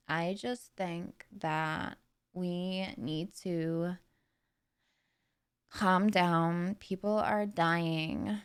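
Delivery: slow, slightly nasal West Coast American drawl; Kardashian. Acted. Streamer imitating reality-TV sisters, slow nasal Kardashian voice. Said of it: "they've got slightly more nasal".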